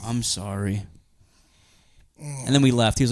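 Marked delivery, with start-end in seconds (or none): 0.0-0.8 low, soft mock-sheepish apology. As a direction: imitate a small, guilty sorry. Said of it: "a sad woman just mopping up his puke".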